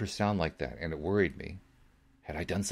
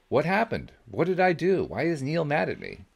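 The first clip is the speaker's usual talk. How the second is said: high, loud anxious burst of questions; high, loud panicked questions; blurted out; 9 semitones higher, 5 dB louder than usual. A narrator's reading. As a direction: blurt it all out at once. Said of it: "I blurted out all three questions".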